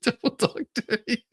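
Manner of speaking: high, whining crybaby voice; whiny mock crybaby. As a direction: whimper it like a big baby.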